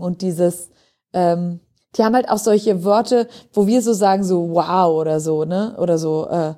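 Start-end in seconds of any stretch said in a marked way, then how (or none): 4.5-4.9 a slow, even „wow“ with little melody; monotone. Shown as a demonstration. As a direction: say „wow“ stretched but without any lift. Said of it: "Das ist auch monoton". (monotones, gedehntes „wow“)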